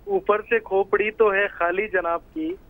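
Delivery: measured satirical couplet delivery; verse recitation. Acted. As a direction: recite it slowly, like a poem.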